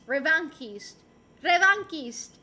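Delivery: "Revanchiste" with a hard k, re-van-keest; trying pronunciations. Shown as a demonstration. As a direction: say "Revanchiste" with k in place of ch. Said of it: "She's mispronounced my username".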